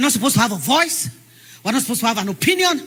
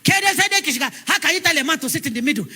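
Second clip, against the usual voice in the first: raised voice in Hausa, fast; angry man shouting; 5 semitones higher, faster than usual. Retold or imitated. Hausa man shouting at a woman in the motor park, angry. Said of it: "the man raised his voice".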